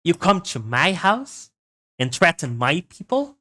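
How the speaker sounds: hammed-up mafioso threat; New York mafioso accent. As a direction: threaten him like a mob boss. Mafioso impression continues, threatening.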